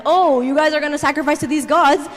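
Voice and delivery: mocking, sassy taunt at rivals; sarcastic and sassy. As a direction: needle them with mock-helpful suggestions. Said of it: "he's, like, so sarcastic, he's, like, so sassy".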